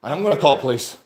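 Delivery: furious shouted threats, high and loud; shaking with anger. Real, not acted. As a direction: yell the threat, trembling with rage. Tenant threatening landlord.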